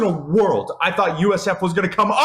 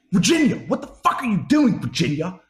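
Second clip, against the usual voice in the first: outraged disbelief; 3 semitones higher than usual. Real, not acted. Fan calling out Virginia over a loss, outraged disbelief. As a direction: demand an explanation in a raised, incredulous pitch. Berates losing team in disbelief.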